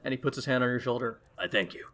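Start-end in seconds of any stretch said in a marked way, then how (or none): 1.4-1.9 quiet, grave royal resolve; solemn king. Acted. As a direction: speak as a deposed king reclaiming his throne. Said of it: "He shakes his head".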